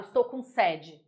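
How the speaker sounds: sede said with an open é, the wrong way; mock a wrong sede with an open é. Shown as a demonstration. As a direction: Estou com sede with an open é, as nobody says it. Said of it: "Ninguém vira e fala".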